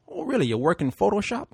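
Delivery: lightly imitated Puerto Rican cabbie, interested; curious mock Puerto Rican driver; bad Puerto Rican accent. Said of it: "I'm gonna do it bad accent".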